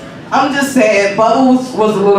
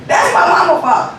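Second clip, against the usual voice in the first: mock complaint; 8 semitones higher than usual. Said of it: "But I was like".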